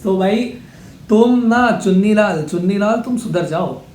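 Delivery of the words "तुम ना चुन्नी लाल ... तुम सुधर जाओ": mock scolding. Real, not acted. Scolding a spamming commenter.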